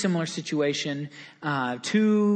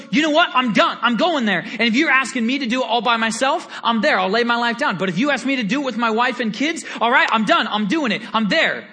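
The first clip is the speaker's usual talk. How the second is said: fervent declaration; 2 semitones higher, faster than usual. Retold or imitated. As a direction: declare it with full zeal. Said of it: "he goes".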